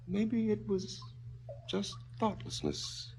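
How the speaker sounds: breathy, high, almost whispered confession; near whisper. Acted. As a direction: let the words fall to a whisper. Father confesses softly.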